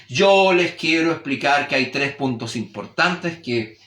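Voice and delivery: slow, solemn lecturing tone, exaggerated; pontifical. Shown as a demonstration. Teacher showing a formal tone, exaggerated solemn pontificating. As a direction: pronounce it grandly, like a pompous lecturer. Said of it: "El primero era un poco pontifical".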